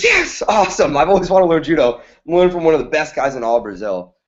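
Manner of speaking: put-on retelling a boy's excitement, quick and bright, starting high; quick, eager kid's voice; pumped kid. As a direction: gush like a thrilled kid who finally got his wish. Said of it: "And the kid's pumped".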